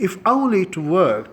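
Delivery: drawn-out sigh of regret; slow wistful demo. Shown as a demonstration. Teacher demoing a wishful English phrase, slow and drawn out. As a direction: stretch it out like a hopeless wish. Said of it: "آپ کہہ سکتے ہیں".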